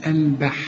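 "البح" with a thin, light ب. Shown as a demonstration. Teacher corrects the student's heavy ب. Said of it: "لا".

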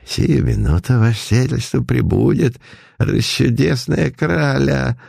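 fawning innkeeper voice; obsequious. Acted. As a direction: grovel to the rich guest. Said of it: "подобострастно доложил рыжий содержатель".

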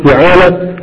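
فعالة said fi-'aa-la with the first vowel i; short i on the first letter of فعالة; fi'ala with i. Shown as a demonstration. Teacher to students, فعالة said with i on the first letter. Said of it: "قل".

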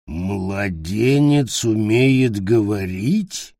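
slow, suspicious goblin; lightly voiced goblin, puzzled; slow creature question. Goblin voice in story.

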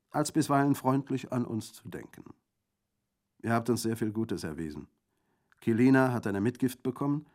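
high, loud, earnest bandit; hearty bandit. A narrator's reading. Bandit thanking Orso for his kindness, hearty. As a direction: speak up in grateful friendship.

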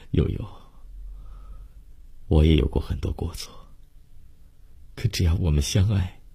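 softly emotional, unhurried reassurance; tender forgiveness. Acted. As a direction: comfort a lover mid-embrace. Lover forgives during an embrace. (温柔动情地轻声宽慰)

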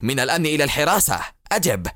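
fast, urgent radio call; very agitated. Acted. Barak repeating the radio call in fast, agitated urgency. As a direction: bark the call sign impatiently. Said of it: "يكرر النداء في عصبية شديدة".

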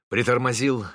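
ordinary delivery, nothing marked

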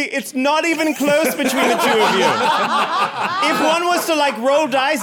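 high voice bubbling with laughter; laughing rejection. Acted. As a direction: let them down while cracking up. Mock rejection while cracking up.

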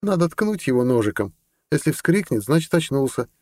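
put-on a girl cheerfully proposing something cruel; lightly voiced eager girl.

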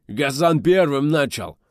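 high, loud, slow whining wail; wailing complaint. A narrator's reading. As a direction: wail it like a tattling rioter. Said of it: "загласил чернявый мужичок".

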